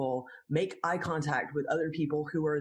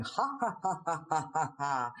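light, airy ha ha ha, laughing through the motions; going through the motions of a laugh; fake laugh demo. Shown as a demonstration. Laughter teacher demonstrates a laugh on purpose, light and breathy. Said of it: "even if you're just going".

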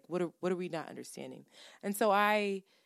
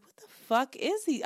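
louder and higher, getting fired up; retold hype outburst; 6 semitones higher, 5 dB louder than usual. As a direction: replay the moment you lost your cool. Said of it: "This is when I started getting hype".

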